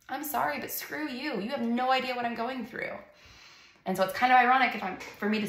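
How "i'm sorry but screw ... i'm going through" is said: higher, biting retort; retold angry retort. Mother snaps at Christian friends, higher and biting. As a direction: snap back at them in frustration. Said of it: "And I was like".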